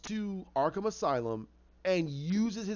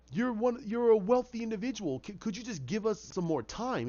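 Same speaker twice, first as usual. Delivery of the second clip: higher-pitched urgent appeal; plead, pitched up and insistent; 5 semitones higher than usual. Acted. Doctor begging wealthy backer for more time, pleading.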